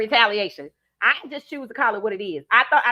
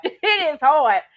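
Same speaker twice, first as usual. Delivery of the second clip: laughing; 5 semitones higher, 5 dB louder, slower than usual. Real, not acted. Laughing about hoodie.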